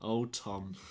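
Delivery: imitating a teacher's quiet, weighted pause; soft retold address. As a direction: say the name softly, then wait. Retold teacher before his outburst.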